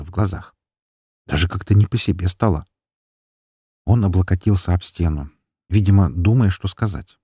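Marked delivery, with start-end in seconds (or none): none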